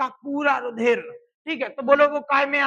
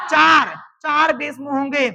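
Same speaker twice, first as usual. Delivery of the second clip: emphatic shout; 6 dB louder, slower than usual. Acted. Teacher answers own quiz question.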